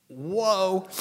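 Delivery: high, loud drawn-out whoa; mock amazed whoa. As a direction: gasp it like a stunned listener. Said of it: "You say".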